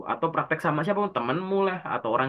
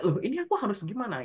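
higher-pitched mock confusion; imitated bewilderment; 7 semitones higher than usual. Student stuck in an interview, acting bewildered in a raised voice. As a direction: act out a student at a loss. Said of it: "Jadi kayak".

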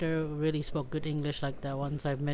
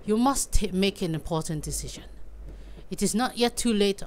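solemn, measured warning to a patient's friend; grave doctor character voice; 3 semitones higher, faster than usual. Acted. Doctor warning the player about the search, solemn. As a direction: read it like a weighty Victorian doctor. Reads game dialogue in character.

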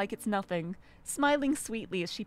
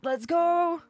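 pet voice; 7 semitones higher, 3 dB louder, slower than usual. Acted. Greeting the cat in pet voice.

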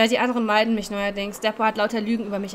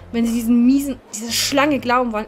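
angry outburst; 6 dB louder than usual. Acted. Angry rant about Debra.

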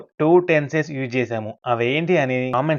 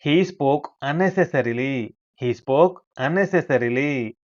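slow model sentence; much slower than usual. Shown as a demonstration. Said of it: "అతను అనవసరంగా మాట్లాడాడు".

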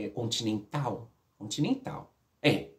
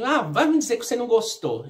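higher, louder imitated jeer; retold taunt; 9 semitones higher, 5 dB louder than usual. Woman quoting what he said to her afterwards, mock taunting. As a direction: imitate him needling, pitch lifted.

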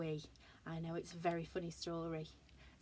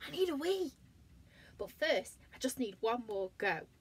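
bear voice; 5 semitones higher, 3 dB louder than usual. Acted. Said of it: "said Alan".

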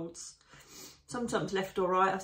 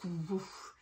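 imitated wing whoosh; 5 dB quieter than usual. Shown as a demonstration. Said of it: "you can hear it resonating".

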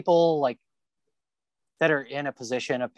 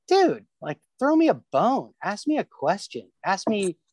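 higher, pleading, half-mock; retold frustrated plea, raised pitch; exasperated plea; 8 semitones higher, slower than usual. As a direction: beg them to throw you a bone. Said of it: "it's just like".

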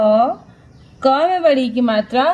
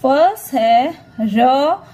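slow reading demo; much slower than usual. Shown as a demonstration. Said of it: "Let's start".

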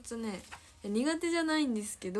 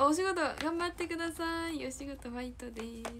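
high sing-song encouragement, easing down at the end; cheering someone on; 6 semitones higher than usual. Real, not acted. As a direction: wish them luck at work in a lifted, lilting voice. Cheering on viewers at work.

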